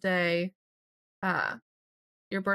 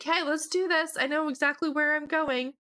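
higher, breezy mock-confident voice; mock confident wife; 6 semitones higher than usual. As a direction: play the sure-of-herself wife, pitched up. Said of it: "And she's like".

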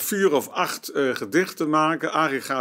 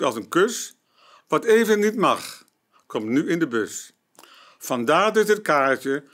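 poem reading. Acted. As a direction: read it out line by line, lifting then settling. Reads own poem aloud.

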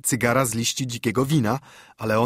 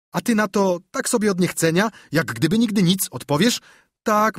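put-on a lively, higher boyish voice; scheming boy; 5 semitones higher than usual. Tom plans to impress the other boys, boyish and gleeful. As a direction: spin the plan with glee.

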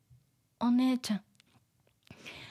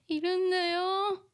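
put-on defensive older sister; 8 semitones higher than usual. Re-voicing older sister line.

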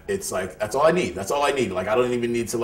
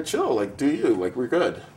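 easygoing reassurance. Retold or imitated. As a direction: pitch it way up, easygoing. Voices himself reassuring a plant.

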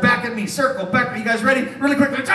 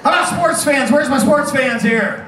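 calling out to the crowd; 4 semitones higher than usual. Acted. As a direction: call to the sports fans, half-hearted. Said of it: "Let's try this again".

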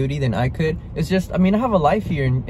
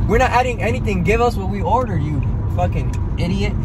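higher, exasperated outburst; heated rant; 4 semitones higher than usual. Retold or imitated. Retelling yelling at the worker, higher and exasperated. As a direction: let it all out at the worker. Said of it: "I was like".

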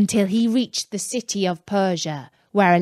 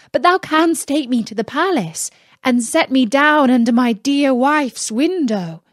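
Aladdin voice; 4 semitones higher than usual. Acted. Aladdin answers genie.

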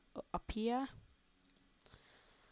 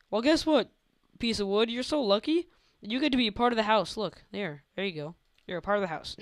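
teasing the wood; 3 semitones higher, 5 dB louder than usual. Pretend. Talking to a piece of wood.

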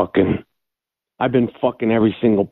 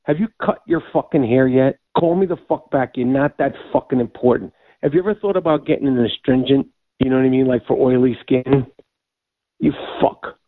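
angry voicemail; 3 semitones higher than usual. Real, not acted. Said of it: "He starts yelling at him".

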